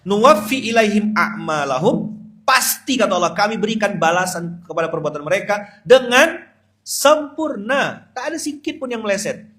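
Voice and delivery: loud, high preacher's call; full-force preaching. Acted. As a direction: drive the point home to the crowd.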